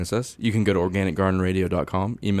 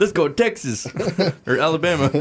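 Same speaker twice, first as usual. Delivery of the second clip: higher, giggling dude voice; laid-back dude voice; 9 semitones higher, 5 dB louder than usual. Pretend. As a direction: keep voicing the chill ant buddy. Voicing ants as dudes.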